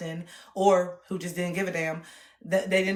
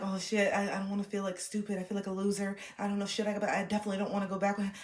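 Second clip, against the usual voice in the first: inner panic; 7 dB quieter, faster than usual. Retold or imitated. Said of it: "I'm like".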